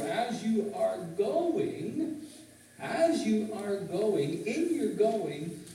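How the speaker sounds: half-speed, phrase by phrase, stretching "going"; measured teaching emphasis on each phrase; slow, deliberate translation. Shown as a demonstration. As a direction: spell out the verse slowly for emphasis. Demonstrates the more accurate translation.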